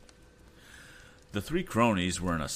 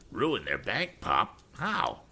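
put-on higher, wide-eyed boyish disbelief; the son amazed at his father's scheme; amazed question; 5 semitones higher, slower than usual. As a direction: ask it amazed and eager.

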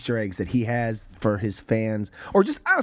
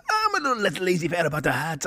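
put-on Hispanic accent with a higher, rising voice; playful Hispanic-accented character impression; Bob's Hispanic accent; 5 semitones higher than usual. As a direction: imitate his Hispanic accent, pitch climbing. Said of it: "the way his voice rises".

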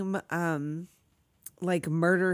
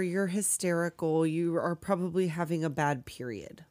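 dismissive cop; 4 semitones lower, 4 dB quieter than usual. Retold or imitated.

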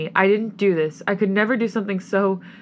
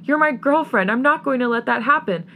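raised, higher-pitched insistence; louder; 6 semitones higher, 5 dB louder than usual. A narrator's reading. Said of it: "His voice is louder".

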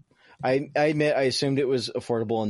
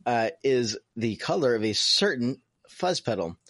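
ad read. Acted. Mock product ad pitch.

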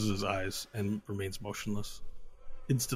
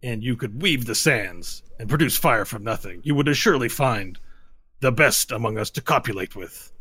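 haughty lizard lord, boastful; booming arrogant alien overlord. Acted. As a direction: look down on the puny human. Diptak boasts to human.

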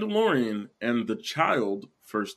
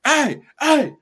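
much higher and louder, whiny and fast; high squeaky bro voice; 6 dB louder than usual. Retold or imitated. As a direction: squeal it like an offended little droid. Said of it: "It was like".

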